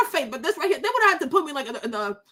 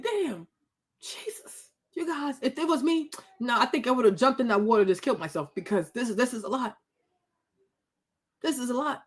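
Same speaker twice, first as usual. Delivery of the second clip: hushed despair; 4 semitones lower, 6 dB quieter than usual. Retold or imitated. Imagining herself as a mother.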